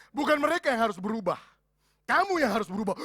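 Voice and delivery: loud, firm voice of God; stern divine rebuke, stress on "kamu"; God's firm rebuke. Retold or imitated. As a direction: speak as God correcting him. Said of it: "Tuhan bilang begini".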